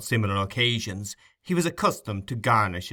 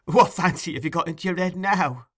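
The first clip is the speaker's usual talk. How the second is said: put-on higher girl's voice, half teasing; girl teasing Sykes in a higher voice; Nancy, higher; 8 semitones higher, 3 dB louder than usual. A narrator's reading. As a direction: lift the voice to play the girl. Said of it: "replied the girl".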